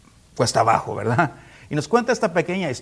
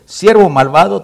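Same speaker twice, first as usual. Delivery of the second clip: stern rebuke; 4 semitones higher, 12 dB louder than usual. Acted. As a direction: lord scolding loudly. Lord rebukes wicked servant. (el señor reprende a su siervo: regaño fuerte)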